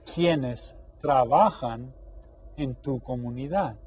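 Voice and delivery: slow teacher reading; slow model question. Shown as a demonstration. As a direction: lay the question out slowly. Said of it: "we know what the question is asking".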